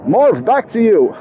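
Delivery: commentator handoff. Pretend. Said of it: "professional commentary man".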